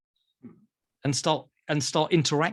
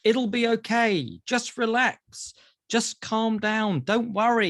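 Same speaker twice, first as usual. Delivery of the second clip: soothing platitudes; 5 semitones higher than usual. Acted. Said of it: "what I would call platitudes".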